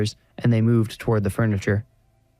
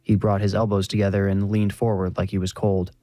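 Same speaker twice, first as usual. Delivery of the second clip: usual speaking voice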